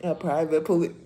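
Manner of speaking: high, loud words squeezed out through real laughter; laughing disbelief. Real, not acted. Reacting to a private police officer claim, crying with laughter. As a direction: laugh at how absurd the claim is.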